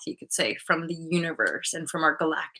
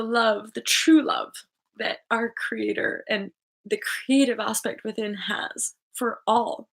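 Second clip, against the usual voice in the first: emotional; 4 semitones higher than usual. Real, not acted. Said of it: "I don't know why I'm feeling emotional".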